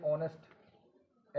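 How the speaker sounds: "ऑनेस्ट" drawn out slowly, opening on the vowel; silent H. Shown as a demonstration. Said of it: "इसमें एच silent हो रहा है". ("ऑनेस्ट" धीरे, एच silent)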